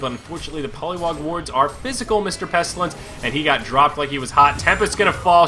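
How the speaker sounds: ordinary talk, nothing marked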